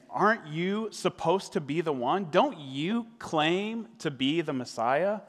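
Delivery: slow, drawn-out mild mock taunt. Criminal mocking Jesus on the cross, mild scorn. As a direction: needle him gently with scorn. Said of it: "the criminal is mocking him".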